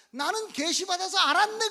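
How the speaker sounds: scornful loud quote; mock boasting. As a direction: crow it out loudly in mockery. Mimicking a false claimant of revelation.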